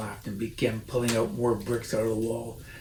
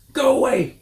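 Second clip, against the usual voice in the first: high, loud squeaky snap; snapping Rat; 12 semitones higher, 7 dB louder than usual. A narrator's reading. Rat snaps at the fox to go away. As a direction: shriek it like a cross little rat. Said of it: "it snapped".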